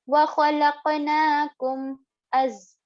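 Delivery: وَخَلَقْنَاكُمْ with a quick, unheld m before "as"; no ghunna. Shown as a demonstration. Teacher showing students izhar, quick m without ghunna. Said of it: "quickly without any gunna".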